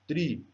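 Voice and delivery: "tri" cut off from triste; stressed syllable alone. Shown as a demonstration. Teacher picking out the tonic syllable, said by itself. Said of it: "a sílaba tônica".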